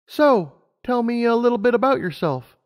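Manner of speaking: put-on high, eager young mare; Lumina's voice. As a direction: voice her up high, keen and bright-eyed. Lumina chats to Animus.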